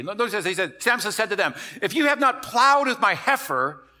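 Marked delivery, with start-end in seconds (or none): 1.8-3.9 angry retort. Retold or imitated. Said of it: "so he's angry".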